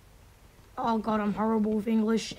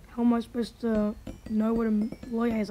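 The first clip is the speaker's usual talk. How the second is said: normal talking voice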